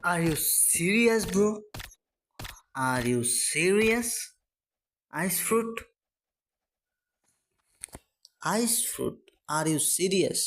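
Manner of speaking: high, slow disbelieving cry; disbelief. Real, not acted. Gamer reacting to a bad fruit roll, high slow disbelief. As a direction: stretch serious out in dismay. Rolls a disappointing Ice fruit.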